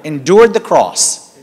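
slow, emphatic phrase for the congregation to echo; measured call-and-response scripture line; leading a recitation. Shown as a demonstration. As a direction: give it out slowly, to be repeated. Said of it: "Repeat after me".

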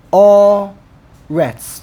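Haaretz drawn out as ha, a, retz; long separated beats in Haaretz for counting; syllable by syllable. Shown as a demonstration. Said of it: "Three syllables".

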